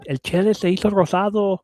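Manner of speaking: high, loud, fast mocking; mock the family's teasing in Spanish; teasing relatives.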